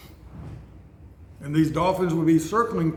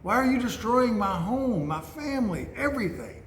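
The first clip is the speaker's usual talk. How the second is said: higher, imagined plea of a hurt animal; pleading orangutan; 5 semitones higher than usual. Retold or imitated. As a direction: ask why, higher and wounded. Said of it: "I think of him thinking".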